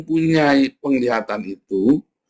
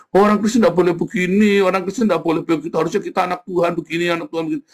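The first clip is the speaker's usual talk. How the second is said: higher, sing-song mock of a moralizer; mock holier-than-thou lecture, quickening; mocking preachy Christian; 4 semitones higher, faster than usual. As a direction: parody the self-righteous church critic. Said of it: "Orang Kristen yang suka ngomong".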